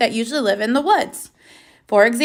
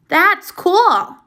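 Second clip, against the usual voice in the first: excited; 7 semitones higher, 3 dB louder than usual. Shown as a demonstration. Reading an exclamation example.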